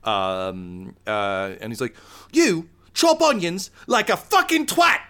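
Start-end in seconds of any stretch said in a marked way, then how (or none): 2.3-5.0 high, loud chef's tirade; angry yelling. Acted. Zabrak chef to his robot helper, furious high yelling. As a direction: yell it like a furious head chef. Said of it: "he's yelling at".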